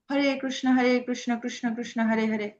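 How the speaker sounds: হরে কৃষ্ণ chanted with Bengali vowels; Bengali pronunciation. Shown as a demonstration. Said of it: "আমরা বাঙালিরা". (বাঙালি উচ্চারণে হরে কৃষ্ণ)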